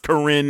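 "Karen" as kuh-RIN; declared new pronunciation. Shown as a demonstration. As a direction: stress falls on the second syllable of Karen. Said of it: "it's pronounced Karen now".

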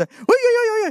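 startled oi. Acted. Samuel jumping up startled.

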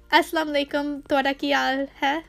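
quick native Punjabi greeting; Punjabi pronunciation. Shown as a demonstration. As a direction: rattle it off in Punjabi. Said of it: "in Punjabi".

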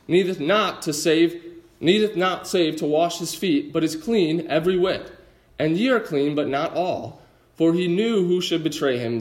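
measured, formal reading of the passage; scripture reading. Acted. Preacher reading John to the congregation, solemn scripture reading. Reads King James passage aloud.

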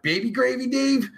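ordinary talk, nothing marked

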